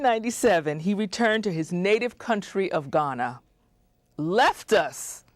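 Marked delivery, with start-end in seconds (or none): 4.2-5.2 high, slow singsong lament; mock wail. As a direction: wail it like a sad song. Teasing host who left them.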